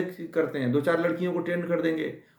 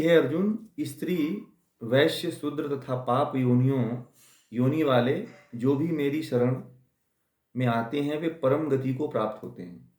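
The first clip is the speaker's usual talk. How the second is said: scripture recitation. Acted. Recites Gita verse.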